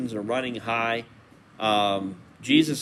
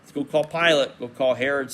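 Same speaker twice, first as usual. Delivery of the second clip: accusing opponents; 3 semitones higher, 3 dB louder than usual. Retold or imitated. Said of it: "turn around and say the very opposite".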